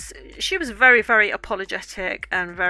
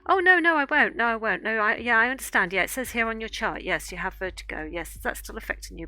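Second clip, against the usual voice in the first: dismissive mock reassurance. Mocking dentist's reassurance.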